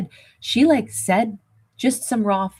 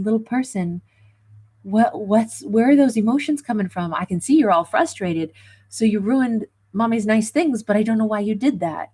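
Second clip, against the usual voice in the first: put-on higher, coaxing voice for a misbehaving child; talking to a kid; 4 semitones higher than usual. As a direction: gently ask a small child why they broke things. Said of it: "the way you would talk to a kid".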